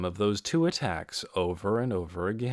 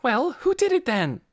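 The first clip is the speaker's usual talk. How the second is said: pressing demand; 5 dB louder than usual. A narrator's reading. Lena presses Torrin.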